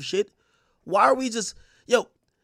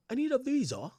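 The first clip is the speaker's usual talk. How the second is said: higher mock girlfriend voice; mock higher imitation of the girl asking for a visa; mimicking his girl; 7 semitones higher, 4 dB quieter than usual. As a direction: pitch it up to imitate her. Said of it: "She's like".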